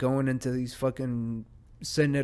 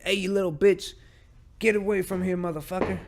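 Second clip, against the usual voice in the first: higher, louder shout; yelling at rat; 7 semitones higher, 4 dB louder than usual. Real, not acted. Podcaster yelling at a rat to scare it off. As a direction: chase the rat off with a yell.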